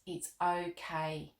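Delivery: a king calmly reassures Molly. Acted. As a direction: gently reassure the girl. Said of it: "in a calm voice".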